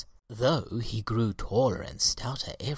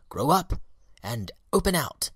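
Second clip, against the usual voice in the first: louder, higher encouraging call; gentle coaxing; 5 semitones higher, 5 dB louder than usual. A narrator's reading. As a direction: urge the buds to grow. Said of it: "he said".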